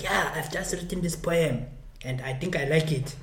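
poet announcing himself in a put-on South African accent; South African political accent. Poet walking on stage with a new poem, South African accent. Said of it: "South African political accent".

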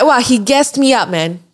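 high, loud thrilled exclaim; recalling being hyped up, high and loud; excited. Retold or imitated. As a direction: sound chuffed at the compliment. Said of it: "I'm like".

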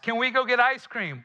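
put-on high, eager kid's question; kid asking. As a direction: ask like a child begging for a treat. Kid asking mom for ice cream.

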